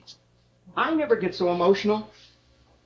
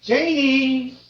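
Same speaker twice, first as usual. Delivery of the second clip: calling through a closed door, raised voice; 4 dB louder, much slower than usual. Acted. Father at the apartment door calling for his daughter, loud call. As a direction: shout her name to get her to open up.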